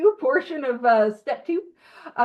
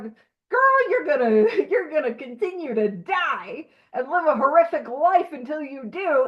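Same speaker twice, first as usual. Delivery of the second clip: impassioned plea; 2 semitones higher than usual. Acted. Voicing the book's plea to a reluctant reader, impassioned. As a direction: plead with a friend, laugh breaking in. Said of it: "the impassioned plea of like".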